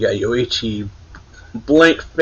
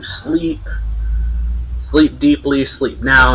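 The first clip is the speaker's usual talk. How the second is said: mild mock yell, pitched up; half-hearted yelled command, a little raised; retold yell; 3 semitones higher, slower than usual. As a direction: imitate someone yelling orders, without full volume. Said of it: "He's yelling".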